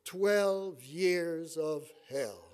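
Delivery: slow, heavy sigh of a line; a hint of the mother's tired resignation, drawn out; weary lament. Son imitating his mother on every wedding anniversary, slow and weary. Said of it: "and she would say".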